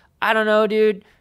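high, loud, sarcastic and dismissive. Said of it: "I'm being sarcastic".

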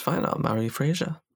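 ordinary delivery

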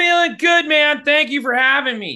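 high, loud shout. Guest on a chat show, answering the host, as Chad the Bird yelling. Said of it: "I don't know why I'm yelling".

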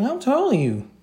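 put-on very high, squeaky child's voice. Retelling asking a very tall man his height as a little kid, in a squeaky kid voice. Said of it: "you being a little kid, squeaky ass voice".

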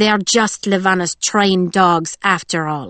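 ordinary delivery

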